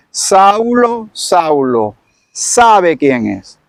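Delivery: first Saulo called high, then slow and solemn; slow, solemn divine calling voice; voice of the Lord from heaven. Acted. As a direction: call him from the sky, slowly. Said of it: "esta es la voz que sale".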